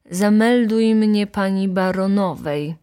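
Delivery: ordinary delivery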